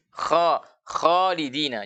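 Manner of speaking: "kholidina" with thick kh and open mouth; tebal, mulut terbuka. Shown as a demonstration. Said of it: "terbaca tebal tapi terbuka mulut". ("kholidina" tebal dengan mulut terbuka)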